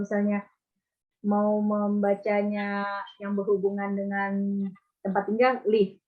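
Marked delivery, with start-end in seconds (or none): 5.7-6.0 "live" with short I, like "liv"; short falling "liv" for "live"; correct "live". Shown as a demonstration. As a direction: model "live" as a crisp "lif". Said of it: "Bilangnya live".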